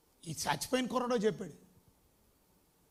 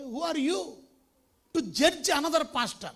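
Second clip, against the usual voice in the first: ordinary delivery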